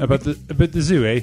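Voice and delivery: playful Canadian about the zoo, eh; mock Canadian eh. Apologising jokingly for Canadian slip, mock Canadian. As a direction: tack on a Canadian eh.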